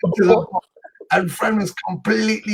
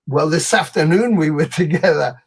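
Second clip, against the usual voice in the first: laughing reply. Retold or imitated. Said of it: "I was going".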